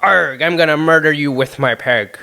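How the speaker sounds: a lightly voiced killer pirate. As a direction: growl it like a playful pirate villain. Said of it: "sounds like a cool serial killer pirate".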